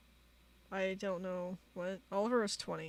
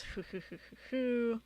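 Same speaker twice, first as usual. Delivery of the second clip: hooting mock laugh, rising at the end; imitated chuckle; 3 semitones higher than usual. Reading Oliver's reply to Shark, imitated hooting laugh. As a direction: read out a sly hoo-hoo laugh. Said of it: "what are your intents?".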